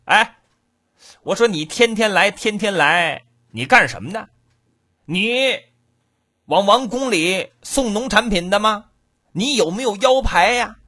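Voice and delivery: guard questioning. Acted. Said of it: "有一个过去了".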